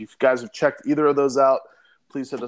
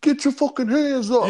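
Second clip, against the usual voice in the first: hype man shout; 12 semitones higher, 5 dB louder than usual. Retold or imitated. Imitating hype man at rapper show.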